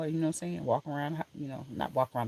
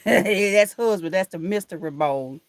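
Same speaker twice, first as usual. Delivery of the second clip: laughing through the words; 3 semitones higher, 8 dB louder, slower than usual. Real, not acted. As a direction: chuckle it out, amused. Laughing over comment.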